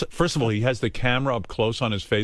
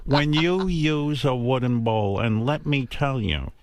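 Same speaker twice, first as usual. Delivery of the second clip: lecturing mother; slower than usual. Retold or imitated. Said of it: "now my eyes are glazing".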